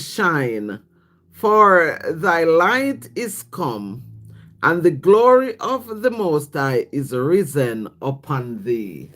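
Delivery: slow, solemn reading of scripture; measured biblical recitation. Acted. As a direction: read the verse like a psalm, slow and solemn. Reads Isaiah aloud to stream.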